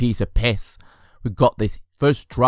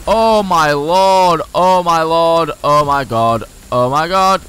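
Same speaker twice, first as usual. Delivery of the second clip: shrieking jackpot winner; 5 semitones higher, 4 dB louder, slower than usual. Real, not acted. Near crash on steep downhill.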